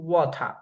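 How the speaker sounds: ওয়াটার with a clear aspirated T; ওয়াটার, T crisp and released; British water. Shown as a demonstration. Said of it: "British না".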